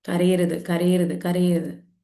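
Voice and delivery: mild stern repetition of കരയരുത്, each a firm command; lightly voiced strict parent drilling a rule; repeated scolding. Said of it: "പഠിപ്പിച്ചു കൊടുത്തിട്ടുണ്ട് അല്ലേ സമൂഹം?".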